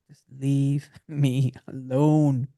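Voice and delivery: drawn-out, word-by-word exasperated plea. Retold or imitated. Doctor begging to be let out of the profession, exasperated. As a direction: stretch each word out in weary protest. Retold plea to bill collectors.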